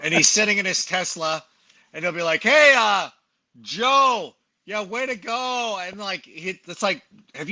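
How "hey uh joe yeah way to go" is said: mock cameo greeting, pitched up and drawn out; higher, stretched-out imitation of a colleague's greeting; Scott Hansen. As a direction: lightly imitate a perfunctory video shout-out. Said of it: "I know Scott Hansen spends about ninety seconds".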